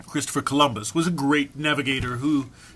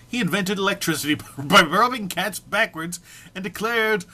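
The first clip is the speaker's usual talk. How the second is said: laughing; 4 semitones higher, 3 dB louder than usual. Real, not acted. Cracking up while reading.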